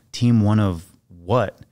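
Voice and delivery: slow, cocky questioning, ending on a rise; cocky challenge. Retold or imitated. Fake SEAL sizing up the newcomer, cocky. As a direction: challenge him slowly, like a doubting know-it-all. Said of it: "looks at me all cocky".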